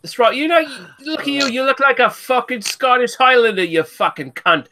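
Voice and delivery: hammed-up posh Londoner, sneering; lightly done upper-class English voice, mocking; mock posh English accent. Taunting the Scottish friend in a mock posh English accent. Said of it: "You posh cunt".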